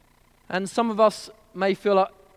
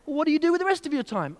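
businessman; 9 semitones higher, faster than usual. Acted. Businessman asking quickly.

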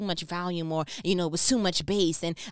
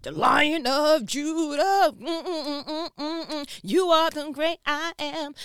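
higher and louder, slow roaring praise; Lion of Judah; 7 semitones higher, 5 dB louder, slower than usual. Acted. Describing God's lion side in a powerful proclaiming voice. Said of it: "and then he's, like".

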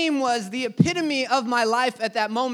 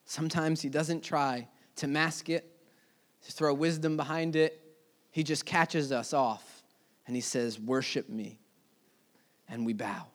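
much softer and lower, drawn in close; hushed telling; 8 semitones lower, 8 dB quieter than usual. Acted. Preacher telling the congregation how temptation creeps in, hushed and low. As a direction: lower the voice as if the tempter is whispering near. Tempter's quiet seductive call.

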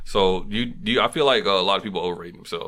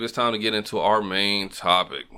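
bored. Real, not acted. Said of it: "Why you sound so bored?".

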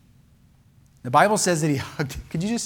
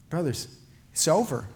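spoke kindly; 5 dB quieter than usual. Acted. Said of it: "He spoke kindly".

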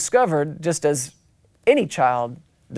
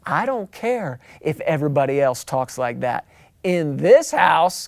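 stern parents; 2 semitones lower than usual. Acted. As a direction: lay down the house rule firmly. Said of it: "And they say".

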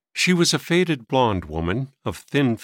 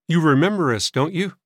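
higher-pitched polite question; courteous boy asking, mildly eager; 6 semitones higher, 4 dB louder than usual. A narrator's reading. Boy reminding old man who they are, polite. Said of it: "asked Frank politely".

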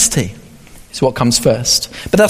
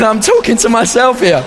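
laughing through the line; 2 semitones higher than usual. Real, not acted. Punchline of the joke.

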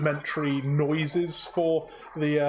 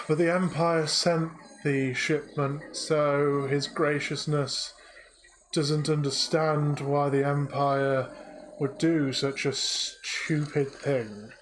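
weary droid voice. Acted. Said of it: "turns back again and goes".

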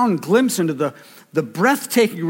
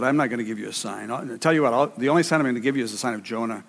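Jesus voiced; 5 semitones lower, 4 dB quieter, faster than usual. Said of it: "And Jesus said".

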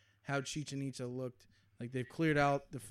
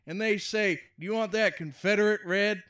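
loud, high hammed-up redneck comic; redneck joke teller; 6 semitones higher, 12 dB louder than usual. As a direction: deliver it like a pushy gas-station joker. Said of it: "no front teeth having Frank, he goes".

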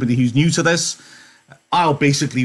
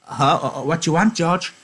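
Lenny voiced; 5 semitones higher than usual.

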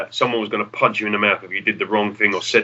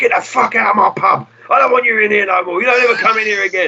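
angry landlord; 10 semitones higher than usual. Retold or imitated. Landlord Jack kicking the band out of his pub, imitated fury. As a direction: imitate a furious landlord throwing them out. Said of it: "Next week he's like".

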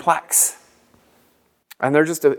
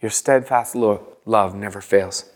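1 meditative repeat; 5 semitones lower than usual. Shown as a demonstration. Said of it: "and you repeat it".

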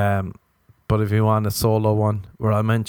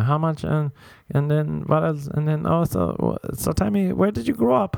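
mock nosy questions; 4 semitones higher than usual. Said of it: "women being like".

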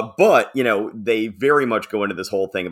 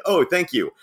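high, overly sweet mock-polite dictator; Nice Guy Dictator; 4 semitones higher than usual. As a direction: play a tyrant who is suddenly a shy, eager suitor. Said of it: "Nice Guy Dictator".

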